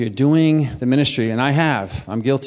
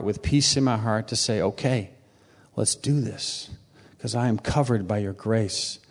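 earnest spoken prayer, slowing and softening; a heartfelt prayer to the Lord. Acted. Prays aloud to the Lord.

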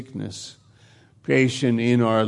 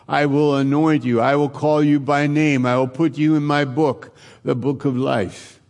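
voice of God; 2 semitones higher, 3 dB louder than usual. Acted. God answering the hurting, mildly raised and consoling. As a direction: speak as God, lifting the voice a little to comfort. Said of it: "And God is saying".

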